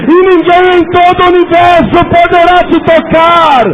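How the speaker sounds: loud, high, impassioned altar call; preacher roaring over the congregation; fervent preaching. Acted. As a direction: cry out the altar call to the crowd. Altar call at full force.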